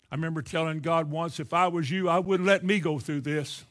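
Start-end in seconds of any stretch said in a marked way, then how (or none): 1.4-3.6 indignant retold complaint, building louder; ugly attitude. Preacher retelling what they told God once, in an ugly attitude. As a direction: re-enact an ugly rant, rising to a loud "oh, no". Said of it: "Just ugly, real ugly".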